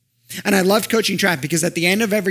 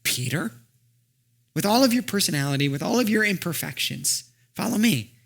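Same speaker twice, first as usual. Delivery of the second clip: softer, intimate call; tender invitation; 2 semitones higher, 3 dB quieter than usual. Acted. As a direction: gently invite him despite his flaws. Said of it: "looking very personally at Peter".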